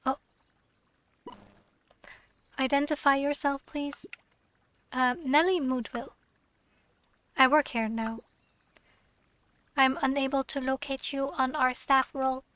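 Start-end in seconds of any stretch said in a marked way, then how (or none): 2.6-4.0 flat mechanical robot voice. Acted. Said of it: "why did I read it in a robot voice". 9.8-12.4 flat mechanical robot read. Acted. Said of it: "why did I read it in a robot voice".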